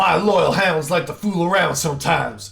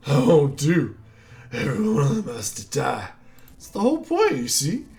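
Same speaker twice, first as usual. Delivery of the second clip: lightly voiced villain boss, mocking; a hint of a gloating hunter villain; 2 semitones lower than usual. Villain taunting the hero, mild mock menace.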